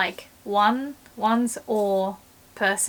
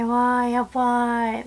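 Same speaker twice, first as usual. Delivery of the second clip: impressed wow; 2 semitones higher, slower than usual. Shown as a demonstration. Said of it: "you might say".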